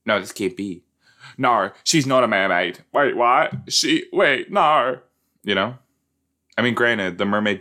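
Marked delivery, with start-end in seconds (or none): 0.1-5.0 imitated incredulous protest; Zane. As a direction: stammer out mounting mock shock. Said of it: "he would have said".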